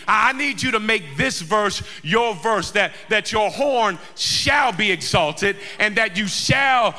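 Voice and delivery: driving sermon with drawn-out refrains; full-force preaching. Real, not acted. Preacher urging the congregation to claim the verse, full-force preaching. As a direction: rouse the crowd, stretching each refrain word.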